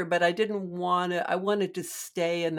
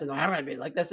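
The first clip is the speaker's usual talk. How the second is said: lower, darker contrasting voice; another way; 4 semitones lower, much faster than usual. Shown as a demonstration. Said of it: "the singer is just like".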